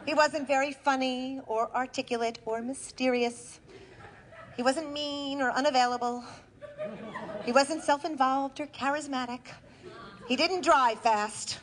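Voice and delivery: deliberate stage delivery with measured pauses; comic storytelling to a live audience; theatrical monologue. Acted. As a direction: punch key words, then pause for the laugh.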